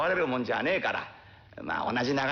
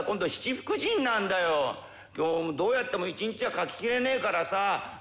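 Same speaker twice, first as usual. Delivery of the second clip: put-on slow, drawn-out childish wheedling; wheedling boy; 4 semitones higher, slower than usual. Boy wheedling his uncle for more days, slow. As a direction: stretch out each plea like a spoiled kid.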